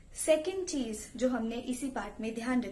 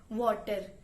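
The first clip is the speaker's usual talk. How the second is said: Punjabi tone; 3 semitones lower, much slower than usual. Shown as a demonstration. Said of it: "Punjabi tone में".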